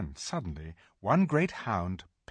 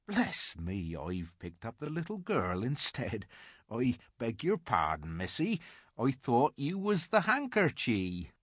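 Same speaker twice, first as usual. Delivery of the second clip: muttering giant; 3 semitones higher than usual. A narrator's reading.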